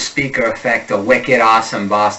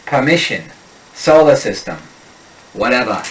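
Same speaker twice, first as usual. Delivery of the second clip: "solar" and "whatever" ending without R; Boston R drops. Shown as a demonstration. Coach drilling Boston R drops on single words. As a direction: drop the final R, Boston style. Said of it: "unstressed R drops".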